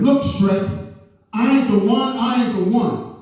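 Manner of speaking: high, sassy mock cashier voice; mock sassy dismissal. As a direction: brush him off like a rude cashier. Rude cashier insulting him.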